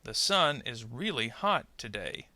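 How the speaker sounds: measured model sentence, beats on "sun", "really", "hot", "today"; sentence stress. Shown as a demonstration. Teacher models sentence stress to repeat, stressing "sun", "really", "hot", "today". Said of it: "stressed syllable in the content words".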